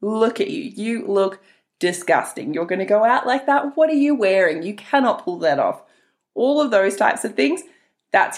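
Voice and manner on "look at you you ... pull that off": sneering fake sweet. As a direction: tear yourself down like a mean girl. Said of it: "that inner mean girl voice".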